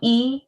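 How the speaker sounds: E on its own after a breathed H; sounds said apart. Shown as a demonstration. Teacher showing how her student sounded out he, sounds apart. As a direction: isolate the long E of HE. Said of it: "one syllable".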